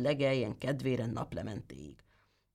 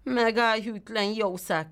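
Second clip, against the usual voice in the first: angry shout; 6 semitones higher, slower than usual. Acted. The tailor finally sees the goat's lie, angry shout. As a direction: shout the goat down in fury. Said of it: "kiáltotta".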